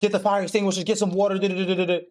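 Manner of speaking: rapid panicked babble, lightly put on; hurried mock alarm trailing into nonsense syllables. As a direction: imitate a flustered crowd, rattling it off. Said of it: "now everyone's panicking".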